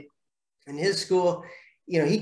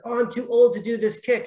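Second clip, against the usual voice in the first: put-on whiny kid; 7 semitones higher, 3 dB louder than usual. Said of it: "the six-year-old says".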